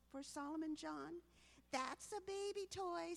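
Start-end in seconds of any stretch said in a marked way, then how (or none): 1.7-3.2 high, loud scornful jab; sneering. Acted. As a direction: scoff at the little kid's toy. Bart sneering at brother's toy.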